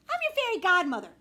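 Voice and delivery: grand announcement. Acted. Odd little man announces.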